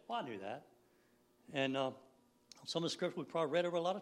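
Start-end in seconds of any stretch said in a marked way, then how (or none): 0.1-0.7 low, offhand know-it-all; mock dismissive. Preacher imitating careless Scripture readers, lightly dismissive. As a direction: toss it off without emphasis. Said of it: "Did we read with emphasis? Or we just say".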